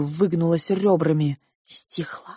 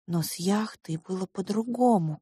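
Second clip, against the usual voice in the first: ordinary delivery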